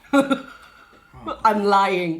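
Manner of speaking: whispered through a laugh. Real, not acted. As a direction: giggle it out in a whisper. Laughing confession.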